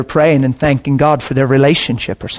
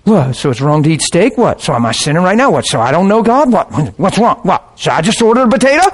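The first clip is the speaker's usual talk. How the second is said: hammed-up indignant questions, climbing in pitch; mock a touchy friend who feels judged, quick and rising; mock defensive; 3 semitones higher, faster than usual. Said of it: "people get defensive".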